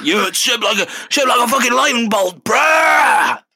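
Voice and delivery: hammed-up Harry bragging, shouting Gryffindor; mock Harry. Harry showing off his scar to girls, a high mock boast. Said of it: "He's like".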